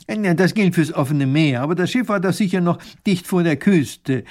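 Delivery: lightly voiced professor objecting. A narrator's reading.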